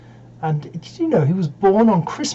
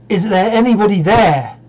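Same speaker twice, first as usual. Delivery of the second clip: louder, higher call at the door; 3 semitones higher, 6 dB louder than usual. Acted. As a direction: call out insistently into an empty house. Traveller calls a second time.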